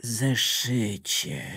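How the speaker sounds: Electricity coaxes the tired notebook, gently; gentle electricity. Acted. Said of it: "powiedział łagodnie Prąd".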